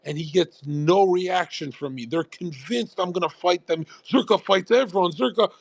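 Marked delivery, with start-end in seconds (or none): 4.1-5.5 lightly mocked higher-pitched heckle; a hint of excited hanger-on; imitated goading fan. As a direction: mimic a chatter egging on a fight. Imitating chatters hyping a fight.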